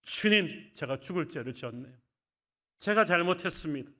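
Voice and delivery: loud, high anguished outcry; Peter's loud, wailing self-reproach; anguished cry. Acted. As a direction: cry out in remorse, voice straining. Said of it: "통곡하고 무너지기 시작합니다".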